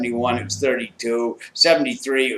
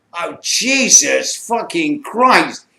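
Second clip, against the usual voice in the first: slow, louder drawn-out shock; retold horrified swear; shocked oath; 5 semitones higher, 4 dB louder, much slower than usual. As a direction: stretch it out in disbelief. Seeing the swollen purple injury.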